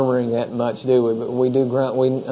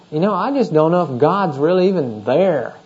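grumbling doubt; 3 semitones higher than usual. Acted. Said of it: "you begin to grumble".

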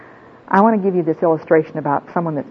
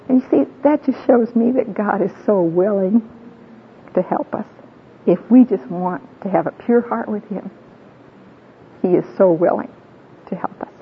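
really welling up with emotion; moved and close to crying; teary voice; 3 semitones higher than usual. Real, not acted. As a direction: speak on through tears. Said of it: "I'm a teary dearie".

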